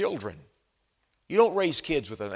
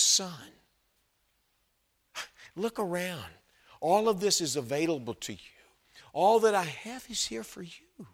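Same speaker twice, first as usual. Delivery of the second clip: tender; 5 semitones higher than usual. Retold or imitated. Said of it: "son is a very tender term".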